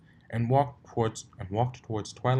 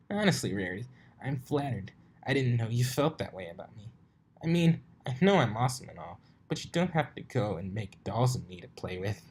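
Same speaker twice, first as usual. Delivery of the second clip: higher, teasing cocky pony; 'honestly' pitched up high and mocking; Rainbow Dash voice; 3 semitones higher than usual.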